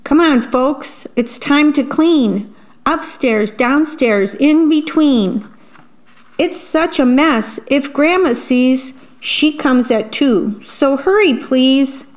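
rally the family to clean; bossy mom. Acted. Mom voiced in story.

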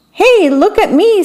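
high, swooping storybook squeal; gleeful high-pitched call for attention; excited squeal. A narrator's reading. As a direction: squeal it like a show-off. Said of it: "Squeak squealed".

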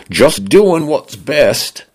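the home AI speaks in a breezy Cockney lilt; Cockney male voice. A narrator's reading. Smart home greets its owner in chirpy Cockney. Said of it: "male British voice that leaned toward a Cockney accent".

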